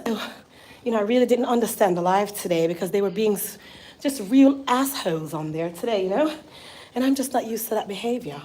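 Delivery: lightly imitated refined friend; a hint of proper, well-spoken speech; Grace. Imitating her friend lamenting the live, proper voice. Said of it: "let me show y'all how she speaks".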